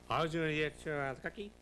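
a light imitation of Ed Sullivan's stiff announcer delivery; Ed Sullivan impression. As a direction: lightly mimic the old TV host. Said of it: "He talked like that".

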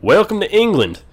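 high, upbeat announcement; lifted, enthusiastic greeting; excited welcome. Pretend. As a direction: announce the arrival brightly in your own accent. First take, own voice, announcing arrival.

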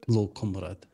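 Russian accent with rounded vowels; attempted Russian accent. Shown as a demonstration. Player practising a greeting, attempted Russian accent. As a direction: have another stab at sounding Russian. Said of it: "I'm still not good at the Russian".

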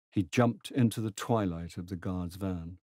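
ordinary delivery

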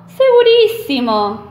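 emphatic insistence. Acted.

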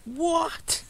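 sudden high yelp of disbelief; startled high what; surprised. Real, not acted. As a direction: shoot up high in shock. Line suddenly breaks.

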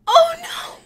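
very high, loud cry of alarm; alarmed wail. Real, not acted. Player sees the pug in trouble, alarmed wail. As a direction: squeal out in sudden distress.

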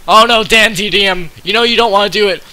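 mock pleading. Pleading with a player.

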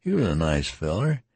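a dying man joking too brightly. Acted. Tattered man voiced, rambling.

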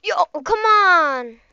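drawn-out, exasperated plea. Real, not acted. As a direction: drag it out in frustrated complaint. Exasperated protest during the game.

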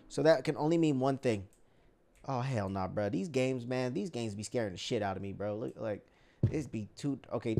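hushed scared. Real, not acted. Gamer creeping through a dark room, scared and hushed. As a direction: mutter it like you're afraid to be heard.

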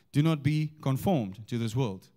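"conformed" set apart and weighted; stress on CONFORMED. Shown as a demonstration. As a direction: lean on the word "conformed". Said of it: "change the emphasis on the words".

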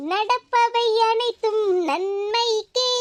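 slow, mock-wise saying; mocking proverb. Younger sister slowly teasing her sister with a proverb. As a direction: say it slowly like a sly sage. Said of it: "என்ன பார்த்து தானே கிண்டல் பண்ணிட்டு இருக்க".

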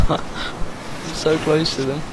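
slow hushed sneaking voice. Real, not acted. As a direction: whisper it while sneaking up. Sneaking up on players.

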